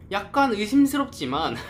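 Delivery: said through a laugh. Real, not acted. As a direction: chuckle while admitting doubt. Laughing while recalling being suspicious. (웃으면서)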